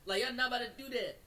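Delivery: fast, pleading protest; panicked pleading. Retold or imitated. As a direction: beg them fast not to do it. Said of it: "I start pulling my arm like".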